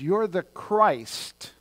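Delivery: retold outburst, proclaimed without screaming; mock cry of revelation. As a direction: proclaim it as Peter's sudden revelation. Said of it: "Peter screams out".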